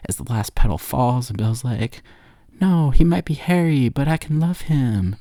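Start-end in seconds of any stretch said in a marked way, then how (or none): 2.6-5.2 mock anguish. Belle cries over the beast.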